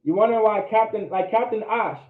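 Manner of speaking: ordinary talk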